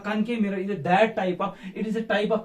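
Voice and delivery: slow, drawn-out dictating; teacher dictating a definition; slow dictation. Shown as a demonstration. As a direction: spell out the definition for notebooks.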